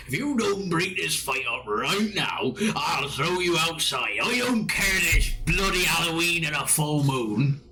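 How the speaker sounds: put-on scolding landlord in a farmer-pirate accent. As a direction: tell off brawlers in a rustic farmer accent. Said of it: "everyone around here talks like farmers".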